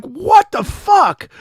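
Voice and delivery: drawn-out, high, loud yell of disbelief; shocked shout. Retold or imitated. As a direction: scream it slowly like finding the disaster. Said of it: "And I'm like".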